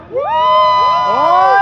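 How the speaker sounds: very high, loud celebratory whoop; real sky-high cheer; ecstatic whoop. Real, not acted. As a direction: whoop with sheer delight. Celebrating end of first test run.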